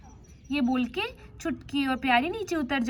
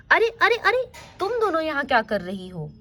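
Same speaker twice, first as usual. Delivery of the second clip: surprised. Acted. पिता बच्चियों को डोली में पाता है.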